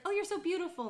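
high-pitched imitation of a gush; gushing compliment. Voicing women's compliments.

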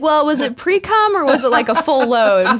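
high, loud laughing quip; mock-innocent question through laughter. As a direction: ask it while cracking up. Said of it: "I was like".

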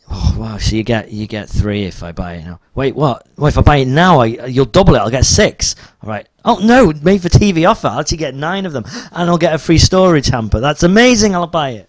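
high, loud hammed-up excitement; rising thrilled gasps over a deal; excited shopper. Acting infomercial viewer excitement.

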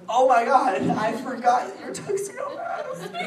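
high, loud squeal breaking into laughter; fangirl meltdown. Retold or imitated. Fan to Tuxedo Mask's actor, fangirl meltdown. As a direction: lose it with starstruck glee, drawing out the end.

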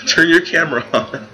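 loud, high call to a cohost off camera. Real, not acted. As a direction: shout it across the room, laughing. Calling to absent cohost.

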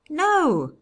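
very high, loud no; insistent refusal. A narrator's reading. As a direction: throw the denial back at the judge. Brother refuses under questioning.

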